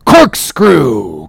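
a mild exclamation; supply the word with a cry; cried out. Acted. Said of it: "cried Ahab".

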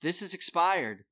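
high, loud fussy official voice; a busybody clerk catching a mistake; prim refusal. Retold or imitated. Poll worker rejects his expired passport, high and loud.

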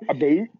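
"A boot?" with the Canadian oo vowel, said as "a boot"; mock Canadian "a boot". Showing off his favourite Canadian word, "A boot?" in a mock accent. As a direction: savour "A boot?" like a Canadian would. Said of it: "so I could say a boot".

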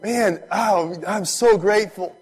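high, loud gush of gratitude; overwhelmed, grateful cry; loud thanking. Acted. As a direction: pour out thanks to God at full voice. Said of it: "says with a loud voice, he's thanking him".

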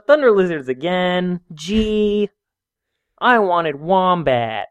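put-on drawn-out, let-down child's grumble; mock-disappointed whining; whiny kid complaint. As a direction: sulk like a kid served the wrong dinner. Acted kid complaining about dinner.

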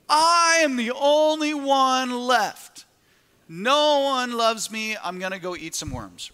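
high, loud, slow whining lament; mock a sorry-for-himself prophet; whiny self-pity. Pastor mocking Elijah's pity party with a loud whine. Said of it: "Elijah says the exact same thing".

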